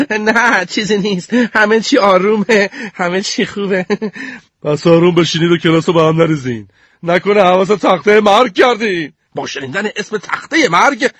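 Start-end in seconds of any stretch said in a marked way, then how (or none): 0.1-3.9 put-on high, hurried kid voice; quickly said. Sneeze hastily reassures the teacher, high hurried voice. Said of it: "تندی گفتم". 4.6-9.1 lightly voiced stern teacher; a hint of a threatening teacher. Mrs. Pierce warns group two about the death board.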